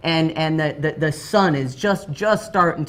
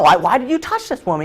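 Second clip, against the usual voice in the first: freaking out; 5 semitones higher than usual. Retold or imitated. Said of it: "he's freaking out".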